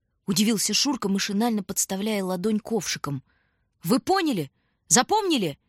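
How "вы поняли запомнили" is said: urgent check. A narrator's reading.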